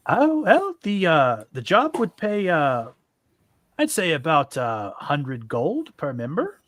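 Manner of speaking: a weird, loose attempt at an Irish lilt; hint of an Irish accent; almost Irish accent. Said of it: "a weird, almost Irish accent for him".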